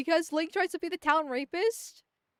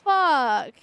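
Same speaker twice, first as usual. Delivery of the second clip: frustrated curse; 8 dB louder than usual. Real, not acted. Quest fails again.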